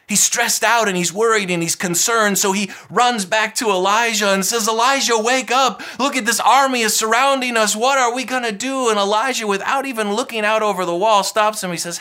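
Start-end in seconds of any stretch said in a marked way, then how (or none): 4.7-8.9 higher, louder urgent pleading; a frightened servant shaking his master awake; panicked servant. Retold or imitated. Servant to Elijah, panicked and urgent.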